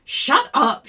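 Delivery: yell. Acted. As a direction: shout her down. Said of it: "she yelled".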